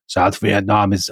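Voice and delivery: slow, halting attempt at a German accent; bad Kissinger accent. Host quoting Kissinger in a failed German accent. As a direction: try a German accent and give up after a few words. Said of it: "I can't do his accent".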